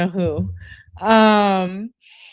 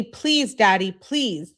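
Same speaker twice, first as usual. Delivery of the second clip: high first please, then drawn out; pleading; 3 semitones higher, much slower than usual. Acted. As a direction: plead lightly, stretching the last words. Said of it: "you can beg me".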